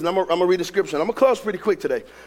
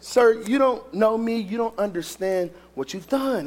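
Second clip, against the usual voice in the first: slow, hushed imitation of crying; retold tearful words; 4 dB quieter, slower than usual. Imitating a tearful woman thanking a stranger, hushed. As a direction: let it sink softer, as if moved to tears. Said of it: "She's crying".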